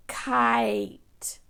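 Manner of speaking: "Kite" whispered with long I; whispered word. Shown as a demonstration. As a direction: breathe "Kite" out clearly. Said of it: "If you hear long I".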